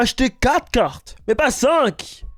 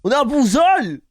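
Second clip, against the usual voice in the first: Jeff Tuche impression; 3 semitones higher than usual. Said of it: "C'est une folie comment tu l'as".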